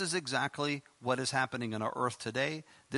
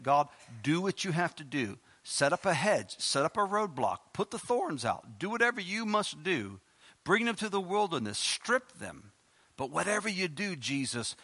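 fervent prayer. Acted. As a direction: plead with God, climbing, then soften on hope. Leads intercessory prayer.

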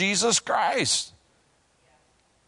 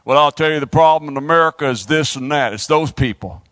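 louder, lower mock of a smug churchgoer; 3 semitones lower, 3 dB louder, faster than usual. Preacher mocking church folk who blame America's problems. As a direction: play the complacent know-it-all, a little pompous. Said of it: "You ought to hear some people talk".

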